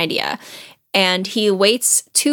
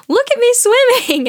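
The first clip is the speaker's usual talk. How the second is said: high squeaky little Roo, bursting with glee; squeaking; 4 dB louder than usual. A narrator's reading. Baby Roo shouting to everyone while swept downstream, squeaky. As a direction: squeak it out, thrilled to be swimming. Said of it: "he keeps saying".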